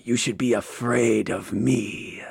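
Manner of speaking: put-on lightly Spanish-accented, drawn-out warning. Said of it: "Peter do a Spanish accent".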